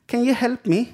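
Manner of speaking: high, pleading foreign woman's voice; a lightly accented woman asking a stranger; imitating the Polish woman. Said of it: "hon bara".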